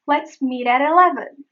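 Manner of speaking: "meet at eleven" connected with light taps; linked flap T. Shown as a demonstration. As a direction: run the sentence together. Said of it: "It is meet at eleven".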